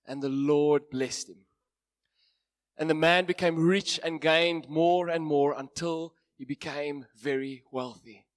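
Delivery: measured Bible reading to a congregation; scripture reading. Acted. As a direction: read the passage with weight. Reads Genesis passage aloud.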